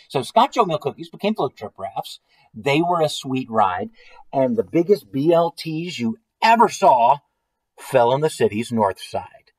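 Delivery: measured, lilting read-aloud; story narration. A narrator's reading. Reading a silly food-storm story to listeners, story narration. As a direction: read it out as a tall tale. Reads a picture book aloud.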